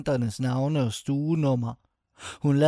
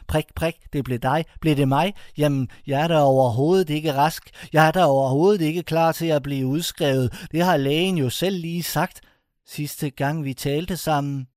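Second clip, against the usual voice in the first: agitated protest; 3 semitones higher than usual. Acted. Patient protests being discharged.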